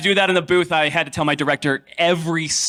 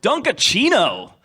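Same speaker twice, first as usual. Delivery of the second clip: mock yell; 5 semitones higher, slower than usual. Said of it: "yell over the Discord".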